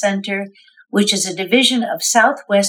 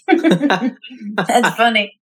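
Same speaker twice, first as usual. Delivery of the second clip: amused, said through a laugh; much slower than usual. Real, not acted. Host amused by guest switching pronunciations, laughing. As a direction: chuckle into the words, unhurried.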